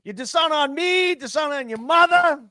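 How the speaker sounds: high, hammed-up shaming voice; mock scolding elder. Imitating a dramatic elder shaming the family.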